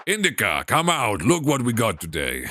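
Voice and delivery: put-on father's lightly done Russian accent. Father calling Indica out to look, light Russian accent. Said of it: "him a Russian accent".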